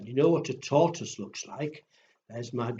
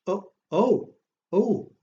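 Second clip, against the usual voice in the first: high, louder oh oh oh of fake dismay; mock surprise; 7 semitones higher, 5 dB louder than usual. Librarian pretending to catch her mistake, mock surprise. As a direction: act shocked at your own mistake. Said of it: "that's not right".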